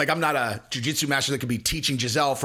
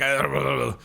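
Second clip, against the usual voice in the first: mock creepy lech. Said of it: "I just made it sound like that".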